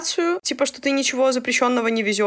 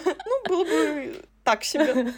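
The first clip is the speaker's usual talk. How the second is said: laughing; 6 semitones higher, 4 dB quieter, slower than usual. Real, not acted. Laughing at own remark.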